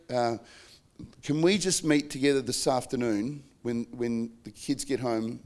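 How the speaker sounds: tender request to pause amid the school rush; calm time-out request. Shown as a demonstration. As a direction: soothe the spouse while calling a pause. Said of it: "we're having a conflict".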